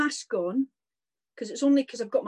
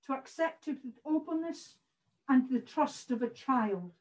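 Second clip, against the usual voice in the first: muffled speech behind a mask; through a face mask; 3 semitones higher, 5 dB quieter than usual. Real, not acted. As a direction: talk through a cloth mask. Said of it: "I hope you can hear me through the mask".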